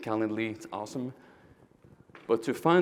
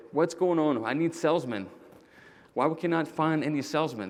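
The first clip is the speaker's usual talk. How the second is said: imitating an annoyed boss; retold anger; 4 semitones higher than usual. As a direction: replay the boss getting mad at HR. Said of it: "I'm mad".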